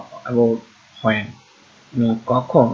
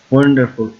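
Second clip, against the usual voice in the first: ওয়ান্ডারফুল with a firm opening ওয়ান; stress on the first syllable; 4 dB louder, faster than usual. Shown as a demonstration. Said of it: "এটা কিন্তু জুড়ে চাপ দিয়ে". (ওয়ান্ডারফুল-এর ওয়ান অংশে জোরে চাপ)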